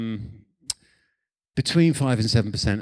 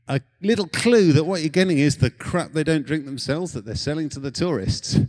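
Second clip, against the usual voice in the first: normal talking voice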